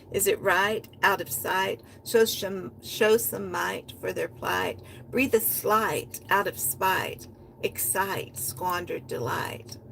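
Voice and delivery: rhythmic performance reading with a driving refrain; spoken-word poem. Acted. Poet performing her own piece for listeners, rhythmic spoken word. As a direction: chant the refrain like a beat, lines rolling into each other.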